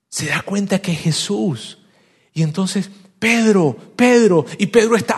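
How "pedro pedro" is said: high, loud name call; urgent calling. Acted. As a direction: call out to get his attention. Juan urgently calling Pedro. (llamado urgente, agudo y fuerte)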